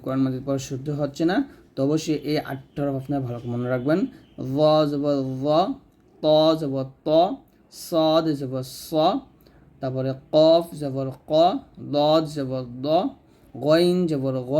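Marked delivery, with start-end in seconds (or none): 4.5-14.5 thick, rounded "জ", "ত", "স", "ক", "দ", "গ"; heavy letters. Shown as a demonstration. Teacher drilling learners, "জ" through "গ" said heavy. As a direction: say each of "জ", "ত", "স", "ক", "দ", "গ" full and heavy. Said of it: "মোটা করে উচ্চারণ করতে".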